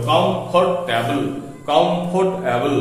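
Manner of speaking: কমফোর্টেবল slowly, as three distinct syllables; syllable breakdown. Shown as a demonstration. Teacher sums up the three syllables, slow syllable breakdown. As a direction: say কমফোর্টেবল part by part. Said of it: "তিনটে এখানে আমার syllable হলো".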